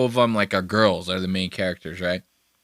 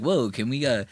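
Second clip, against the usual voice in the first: lightly voiced, soft-spoken courtroom moderator; a hint of a meek plea for order, kept quiet; Legal Eagle; 5 dB quieter than usual. Imagined lawyer moderating two yelling guys, softly imitated. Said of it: "Legal Eagle's like".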